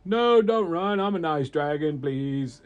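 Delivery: loud, high cry easing into a plea; pleading. Acted. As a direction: beg them to stay. Dragon begs fleeing crowd.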